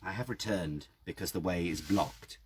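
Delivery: put-on low hushed old man's whisper. A narrator's reading. Old man whispering into the narrator's ear, hushed. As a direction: breathe it into his ear. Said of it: "he whispered".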